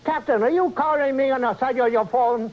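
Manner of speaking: put-on high-pitched caricatured East Asian accent; comic East Asian accent. Engineer takes captain's call, mock East Asian accent. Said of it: "they picked a different accent".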